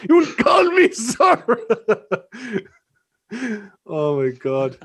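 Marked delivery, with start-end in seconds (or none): 0.1-1.4 slow, higher, louder stern order; old principal. Retold or imitated. A principal demanding respect, slow and higher. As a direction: lord it over the pupil. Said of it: "Sounds like my old principal".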